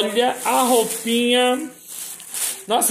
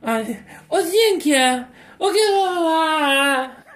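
high, playful calling of a dog; pet talk; 3 semitones higher, much slower than usual. Real, not acted. Owner calls dog Zinc over in playful pet talk. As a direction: call the dog in a sing-song pet voice. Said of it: "eu falo assim com eles".

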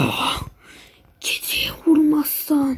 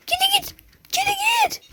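mock fright; 14 semitones higher, 4 dB quieter than usual. Shooing the scary cat.

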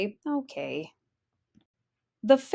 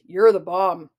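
lower, louder grinning praise; 5 semitones lower, 7 dB louder than usual. Acted. Papa Bear praises Goldie, grinning and loud. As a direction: praise her with a big grin. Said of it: "Pop grinned".

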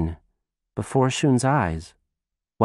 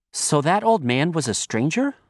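put-on little girl voice; 7 semitones higher than usual. Child voice.

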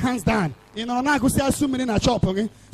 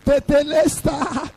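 preacher's imitated cry, last word drawn out. Preacher quoting Christ's cry from the cross, crying out. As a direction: build to a long, ringing final word. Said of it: "The word of God says he cried".

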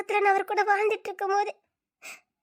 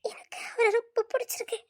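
whispered confession; 5 dB quieter than usual. Acted. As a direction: whisper it, barely voiced. Confessing her love for another.

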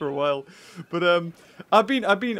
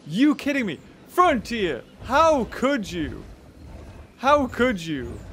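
mock outrage; 4 semitones higher than usual. Mock outrage at game makers.

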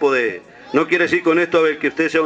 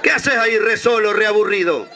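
drawling sheep; 2 semitones higher than usual. Retold or imitated. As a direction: stretch every word lazily. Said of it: "la oveja hablaba así".

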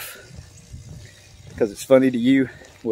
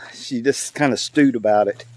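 plain reading voice

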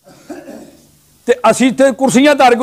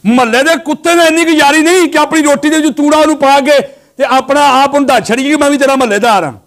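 higher-pitched sermon delivery; raised preaching; 5 semitones higher than usual. Real, not acted. Preacher chides listeners over the neighbourhood dog, raised preaching.

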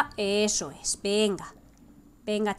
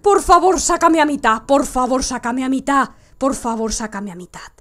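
pleading. Real, not acted. Player begging the game for a checkpoint, plea fading.

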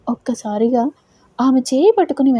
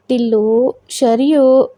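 louder call toward the kitchen; 5 dB louder, much slower than usual. Acted. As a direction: call the two by name from another room. Mother calling from outside kitchen. (వంటగది వైపు గట్టిగా పిలుపు)

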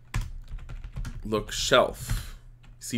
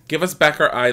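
mild loud plea, pitched higher; pleading; 5 semitones higher, 8 dB louder than usual. A narrator's reading. Old witches beg for their eye back, mildly pleading. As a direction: plead a little, raising voice and pitch. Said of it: "the old witches plead".

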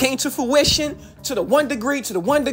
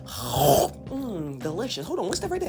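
mock savoring food; slower than usual. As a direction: savor each word like a feast. Mimes eating a feast.

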